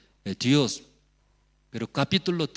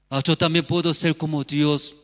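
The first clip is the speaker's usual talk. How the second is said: raised, eager realization after "Ah"; dawning delight; 4 semitones higher, 4 dB louder than usual. Acted. Preacher voicing the woman who liked it, dawning delight. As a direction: seize on the tempting idea, voice lifted.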